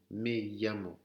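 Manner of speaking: LLAMO said as "yamo"; double L en Y. Shown as a demonstration. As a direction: glide into llamo on a Y sound. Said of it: "comme si vous aviez Y A M O". (llamo dit avec un Y)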